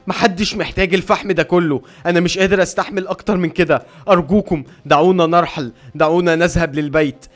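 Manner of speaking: high, loud desperate scream. A narrator's reading. Maddened miner screaming to be let go home, loud and high. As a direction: yell it out at the top of your lungs, begging to leave. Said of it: "بيصرخ بأعلى صوته".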